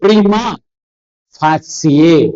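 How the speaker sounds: "Prima facie" split, pree-ma, fa-si-ye; careful Latin pronunciation. Shown as a demonstration. Teacher repeating it for students, careful pronunciation. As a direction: pause after "Prima", then "facie" as fa-si-ye. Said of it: "പലരും തെറ്റായിട്ട് pronounce ചെയ്യുന്നു".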